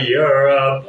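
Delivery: ordinary talk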